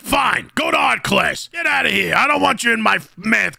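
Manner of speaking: fed-up teacher shout. Acted. Teacher throwing students out.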